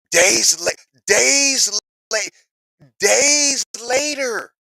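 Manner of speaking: high, loud, stretched shout of days later; shouted emphasis. Real, not acted. To his viewers, shouting that it took days. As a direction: hammer home how fast it happened. Shouting how fast it was.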